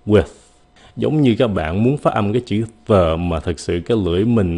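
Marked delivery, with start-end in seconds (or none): 0.0-0.2 With with a faint, airy th at the end; With, tongue barely blocking the air; light th. Shown as a demonstration. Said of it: "một cái th rất là nhẹ".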